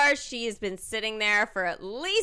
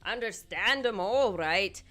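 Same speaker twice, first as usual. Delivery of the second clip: put-on Scottish accent. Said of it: "My accent for this is, has gotten worse".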